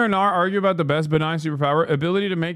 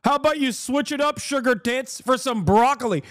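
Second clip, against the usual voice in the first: slightly higher, sing-song nosy lunch critic; mocking meddler; 5 semitones higher than usual. Streamer mocking someone judging a stranger's lunch, sing-song. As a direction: tut over someone's spaghetti lunch. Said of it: "being like".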